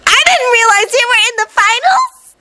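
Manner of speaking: put-on high, surprised girl voice; bubbly surprised girl. Mina's voice in story.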